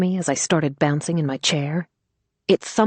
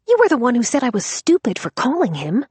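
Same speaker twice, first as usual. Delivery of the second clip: exasperated cry; 8 semitones higher than usual. Acted. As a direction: cry out in disbelief. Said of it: "she cried".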